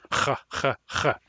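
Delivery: mock throaty rasp. Shown as a demonstration. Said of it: "bone stuck in their throat".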